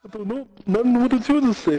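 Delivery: high grandma-like voice. Real, not acted. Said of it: "You sound like my fucking grandmother".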